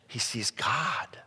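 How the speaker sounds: slow, whispered reveal; hushed awe. A narrator's reading. Preacher revealing who tops the stairway, hushed. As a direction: drop to an awed whisper. Awed climax of the vision.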